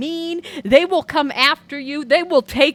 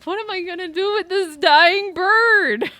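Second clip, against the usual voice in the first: mock distressed self; 5 semitones higher than usual. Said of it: "And then it's like".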